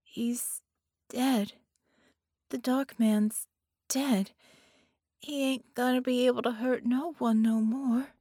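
put-on a stunned little girl, wondering; young girl voice.

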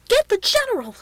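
high, loud alarmed order; urgent shout. A narrator's reading. Shaken man to nearest soldier, urgent shout. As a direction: yell it across to a soldier. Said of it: "shouted the white-faced one".

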